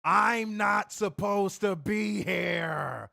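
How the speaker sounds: slow, hammed-up grizzled promo voice; imitating CM Punk. Podcaster mocking wrestler's promo, slow grizzled voice. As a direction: drag out each word, mocking a wrestler's promo. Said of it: "This dude was talking in grizzled Gilbert Gottfried voice".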